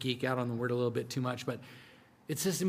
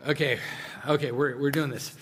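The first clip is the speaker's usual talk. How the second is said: laughing; 4 dB louder than usual. Real, not acted. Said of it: "I am slower than I normally am".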